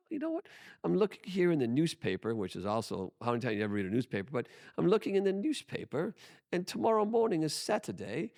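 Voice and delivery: mock the rude agent in dad's English accent. Imitating dad's English accent politely needling an IRS agent. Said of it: "with his English accent".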